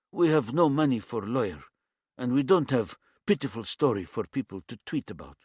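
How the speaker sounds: put-on light East European accent, blunt demand; a hint of an East European tough. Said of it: "His accent was some sort of East European".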